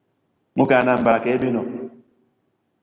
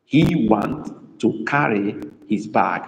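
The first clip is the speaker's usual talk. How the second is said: slow dictation; slower than usual. Shown as a demonstration. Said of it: "emphasis is on to carry".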